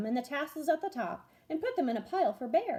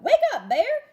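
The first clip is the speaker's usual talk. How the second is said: loud call, pitched up; 12 semitones higher, 11 dB louder than usual. A narrator's reading. Hare calls out to wake sleeping Bear, loud. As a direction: shout to wake him one last time. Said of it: "Hare called out".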